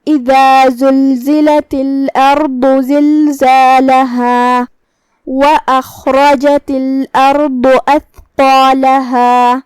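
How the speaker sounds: very slow tajweed with lengthened endings; Quran recitation. Shown as a demonstration. Teacher reciting the explained verse, drawn-out Quran recitation. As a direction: hold each long vowel in steady recitation. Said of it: "ہمیں اپنی آواز لمبی کرنا ہے".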